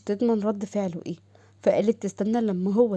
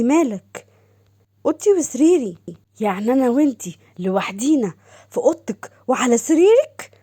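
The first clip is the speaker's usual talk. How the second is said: Doha puzzled; 3 semitones higher, 5 dB louder than usual. Acted. Doha voiced, higher.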